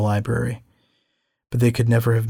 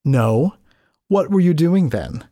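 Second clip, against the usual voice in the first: a higher, needling woman's voice; scornful gallery owner; 7 semitones higher, 4 dB louder, slower than usual. A narrator's reading. Scene: Dalla mocks the narrator for forgetting, scornful. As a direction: taunt him as the edgy gallery owner.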